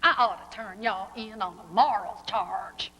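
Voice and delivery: lightly mocking Southern sheriff accent; mock sheriff's accent. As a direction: put on a hint of the sheriff's accent. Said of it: "making fun of that sheriff's accent".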